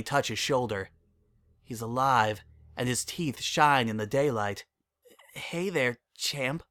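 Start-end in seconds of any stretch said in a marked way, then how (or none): 5.3-6.6 cracking, choked-up voice. Acted. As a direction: hold back tears as it breaks. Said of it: "I hear my voice crack".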